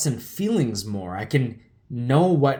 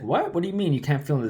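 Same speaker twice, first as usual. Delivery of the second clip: mom's shocked question; 4 semitones higher, much faster than usual. Retold or imitated. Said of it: "my mom's like".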